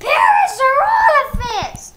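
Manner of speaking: shouted, slow and drawn out; sputtering foiled villain. Acted. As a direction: shake your fist and roar the name. Villain cursing foe's name.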